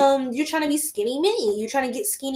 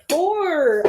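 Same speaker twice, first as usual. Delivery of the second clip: excited shout; 6 semitones higher, 4 dB louder than usual. Real, not acted. Dramatic card reveal count.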